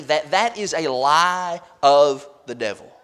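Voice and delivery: slow, deliberate stress on "lie"; emphatic. Real, not acted. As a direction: spell out "a lie of the devil" with weighty pauses. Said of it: "I want to just say emphatically".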